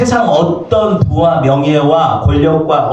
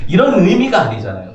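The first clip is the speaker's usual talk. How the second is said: ordinary talk, nothing marked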